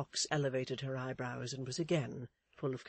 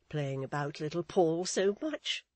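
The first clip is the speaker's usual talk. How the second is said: Mrs Chick's voice; 3 semitones higher, 4 dB louder than usual. Acted. Mrs Chick's lines in story.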